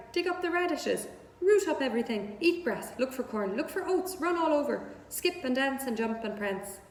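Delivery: a goose listing adventures in a giddy rush; excited goose. Acted. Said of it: "who talked rather fast".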